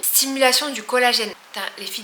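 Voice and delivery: slushy sh for s, lisp from aligners; talking with a lisp through aligners. Real, not acted. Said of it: "désolée si je zozote".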